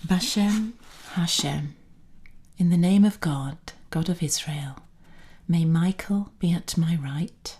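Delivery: solemn invocation, each phrase set apart; prayer recitation. Acted.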